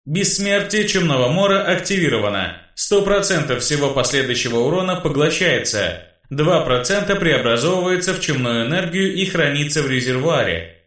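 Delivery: system announcement. Acted. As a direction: read it like a game notification. Game system message read out.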